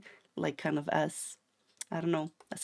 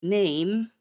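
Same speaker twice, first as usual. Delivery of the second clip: "Name" punched louder with a questioning rise; question mark; 3 semitones higher, 6 dB louder than usual. Shown as a demonstration. Streamer translating a casual Japanese question, "Name" rising and emphatic. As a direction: make "Name" a one-word question, rising at the end. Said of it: "question mark".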